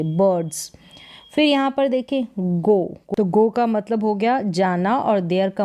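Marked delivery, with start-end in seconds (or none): 0.0-0.7 बर्ड्स with a simple "uh" for the ir; plain "uh" vowel. Shown as a demonstration. Teacher explaining ir to pupils, बर्ड्स said with "uh". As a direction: say बर्ड्स as "buhds", r barely there. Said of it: "सीधा अ करके".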